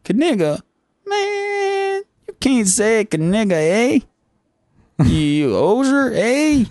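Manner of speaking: very high, outraged Canadian squeak; a cartoon Canadian losing it; squealing Canadian. Canadian character scolding the interviewer, squealing high.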